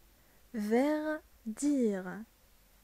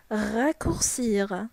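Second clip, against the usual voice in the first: slow repeat; 5 dB louder, much slower than usual. Shown as a demonstration. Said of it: "Ça veut dire يختصر".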